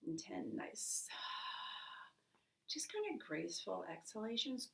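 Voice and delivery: hushed breathing coach; guided breathing. Acted. Leads a breathing exercise.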